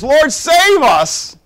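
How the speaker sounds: high, loud and drawn-out plea; desperate cry. Acted. Disciples crying to Jesus on the water, desperate loud cry. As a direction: cry out like men sinking in a storm.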